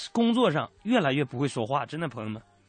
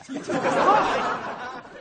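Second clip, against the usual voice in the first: high laugh bursting out; cracking up; laughter. Real, not acted. Host laughing while retelling the wolf story, high laugh.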